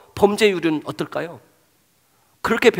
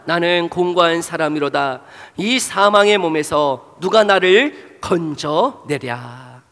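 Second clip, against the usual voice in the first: slow scripture reading; slower than usual. Shown as a demonstration. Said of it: "함께 읽어봅시다".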